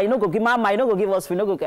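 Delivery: mock clamour of a begging crowd; lightly acted eager pestering; touts clamouring for food. Acting out excited touts asking.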